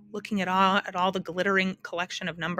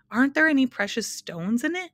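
eager, louder and higher question; excitedly; 6 semitones higher, 4 dB louder than usual. A narrator's reading. Milo asking the math magician about jewels, excited. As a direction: ask it bursting with hope. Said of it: "asked Milo excitedly".

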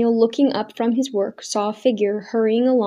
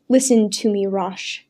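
forced calm. Acted. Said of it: "He struggled to speak reasonably".

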